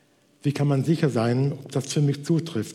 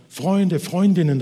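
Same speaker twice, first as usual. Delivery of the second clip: urgent call for help, a little higher; 5 semitones higher, 5 dB louder, slower than usual. Acted. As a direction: call loudly to the neighbours. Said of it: "rief sie".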